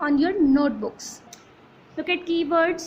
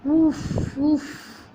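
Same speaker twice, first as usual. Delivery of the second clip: blowing on food. Shown as a demonstration. Teacher blowing on food again, puffing. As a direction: puff air gently. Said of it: "and I blow".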